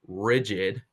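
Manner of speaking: "rigid" set apart by pauses for emphasis; emphatic, isolated "rigid"; stress on rigid. Real, not acted. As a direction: land on "rigid" as its own deliberate beat. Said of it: "emphasis on rigid".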